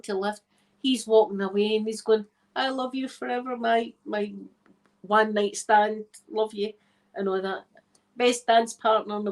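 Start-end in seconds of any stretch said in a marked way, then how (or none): 2.6-6.7 slightly melodramatic lover calling back; mock declaration of love. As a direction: declare undying love as a joke. Acted lover walking away, declaring love.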